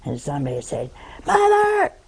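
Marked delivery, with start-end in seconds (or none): 1.3-1.9 high, loud call across the house. Retold or imitated. Child calling for her mother, loud and high. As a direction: shout for her mother from another room.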